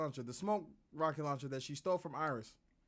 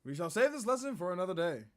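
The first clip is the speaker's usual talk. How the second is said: lightly voiced pompous detective; 3 semitones higher, 4 dB louder than usual. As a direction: dodge the question with lofty airs.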